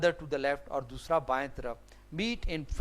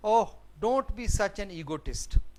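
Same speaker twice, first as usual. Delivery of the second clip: mildly irritated, higher-pitched rebuke; irritably; 4 semitones higher, 3 dB louder, much slower than usual. Acted. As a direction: act out a touch of irritation. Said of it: "ڈیری irritably". (ہلکی جھنجھلاہٹ کے ساتھ)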